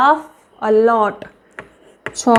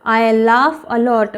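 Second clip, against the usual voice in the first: very slow model sentence; much slower than usual. Shown as a demonstration. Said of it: "웃어요".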